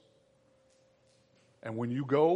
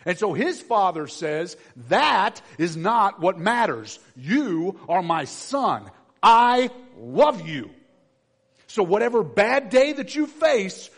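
loud, ringing pulpit preaching; preaching at full force; 6 semitones higher, 10 dB louder than usual. Acted. Preacher to the church, preaching at full force. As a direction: drive it home to the congregation. Preaching God's words to Jesus.

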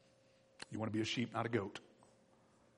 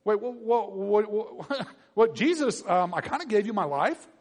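mock shock; 6 semitones higher, 5 dB louder than usual. Believer shocked at Jesus.

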